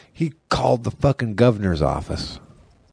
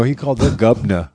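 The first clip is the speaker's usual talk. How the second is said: "governor" as "gubna" in mock English; mock English accent. Correcting co-host about who was called, mock English "governor". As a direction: say "governor" Cockney-style, dropping the r. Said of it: "He's English accent too".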